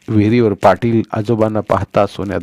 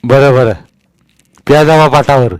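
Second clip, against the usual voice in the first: put-on old Patil's voice; 3 semitones higher, 8 dB louder than usual. A narrator's reading. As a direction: boom down at the little boy from the well. Patil allows them.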